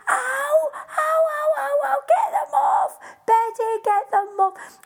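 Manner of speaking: high, loud cries of pain; pained yelps. Acted. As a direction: yelp as claws dig in. Jack's nose clawed by birds.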